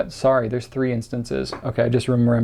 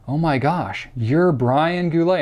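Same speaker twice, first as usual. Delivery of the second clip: slow, higher-pitched mock amazement; starstruck recognition; 4 semitones higher, slower than usual. Stranger recognizing him at Disney World, mock amazed. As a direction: imitate a stunned fan, stretching the name.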